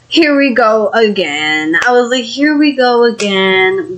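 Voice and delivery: drawn-out, weary groan of words; exasperated. Retold or imitated. Alone and caught off guard, exasperated. Retold exasperated inner reaction.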